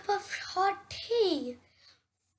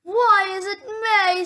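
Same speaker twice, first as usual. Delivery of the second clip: amazed question; 4 semitones higher, 8 dB louder than usual. Acted. Toad amazed.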